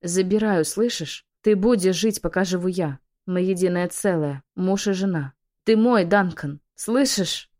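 desperate pleading. Acted. Desperate plea over dead husband.

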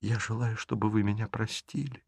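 eyes down, barely heard; meek quiet plea. Acted. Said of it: "не поднимая глаз". (тихо, смиренно)

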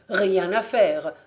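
loud, slow defeated exclamation; exclaiming. Acted. Fabien giving up on the door, loud slow outcry. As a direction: cry it out in frustration. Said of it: "s'écria le Parisien".

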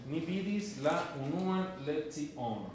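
slowed, each word laid out for students; slow clear repeat. Shown as a demonstration. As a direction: say it slowly so the class can follow. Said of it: "yo te voy a traducir". (lenta y clara, para que la clase repita)

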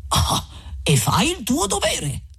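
high, dismissive quip; curt retort. Acted. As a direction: brush the remark aside. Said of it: "rispose Don Abbondio". (risposta sbrigativa, più acuta)

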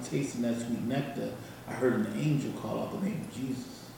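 seduce the listener with every line; sweet nothings. Acted. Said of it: "I'm gonna do a poem".

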